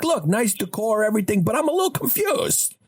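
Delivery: exaggerated dad impression, nearly yelling; mock dad. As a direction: ham up the dad, building to the line.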